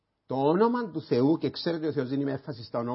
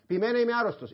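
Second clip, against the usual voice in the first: whiny excuse; 9 semitones higher, faster than usual. Pretend. Imagined sinner's excuses.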